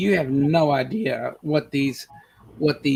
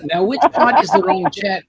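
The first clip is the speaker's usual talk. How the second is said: asked through a laugh; laughing while asking; 8 semitones higher than usual. Real, not acted. Laughing question.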